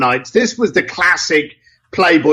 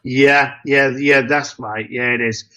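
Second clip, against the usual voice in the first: deflated; 6 semitones lower than usual. Retold or imitated. Client caught out on the phone, deflated. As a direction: let the air go out of him. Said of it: "you could just feel the deflation".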